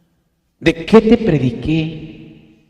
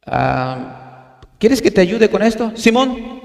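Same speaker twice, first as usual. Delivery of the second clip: casual street slang, pitched up on Simón; mock slang talk; 3 semitones higher, slower than usual. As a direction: play the worldly slangy guy for contrast. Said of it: "yo no hablo así".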